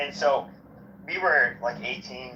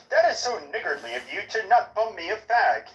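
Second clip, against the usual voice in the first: put-on British accent; 4 semitones higher than usual. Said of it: "if I'm in, like, in, like, Britain".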